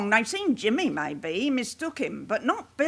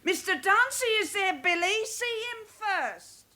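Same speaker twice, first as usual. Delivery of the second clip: urgent plea; 9 semitones higher than usual. Acted. Mother urges her son to see the lawyer first, high and anxious. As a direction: call after him, anxious and insistent.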